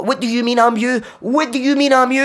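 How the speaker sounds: high-pitched insistent question; acted-out exasperation; arguing. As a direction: press it in a squealed, baffled demand. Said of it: "Having a pure argument".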